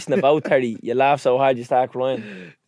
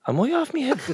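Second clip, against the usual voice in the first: worried friend; 12 semitones higher than usual. Retold or imitated. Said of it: "And then he goes".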